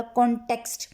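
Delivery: कॉन्टेक्स्ट with the "टे" pressed; stress on T. Shown as a demonstration. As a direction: lean on the first T in कॉन्टेक्स्ट. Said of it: "टी पे मैंने दबाव डाला है". (कॉन्टेक्स्ट में ट पर दबाव)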